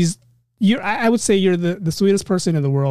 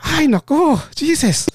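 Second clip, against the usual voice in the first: mock exasperated Filipino dad, higher; 10 semitones higher, slower than usual. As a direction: throw up your hands as the put-upon father.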